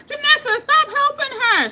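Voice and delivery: high, loud teasing call-out, slowing down on the last words; playful scolding shout. Real, not acted. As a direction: call out to the friend enabling her, mock-stern. Playfully scolding a chat commenter.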